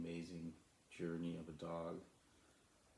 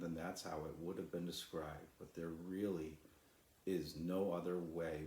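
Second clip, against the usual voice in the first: calm, steady storybook reading; story narration. A narrator's reading. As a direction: read it like a bedtime story for children.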